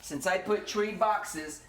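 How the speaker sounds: slow, stretched-out delivery; slow talking. Shown as a demonstration. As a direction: drag each word out slowly. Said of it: "I just got stuck talking like this".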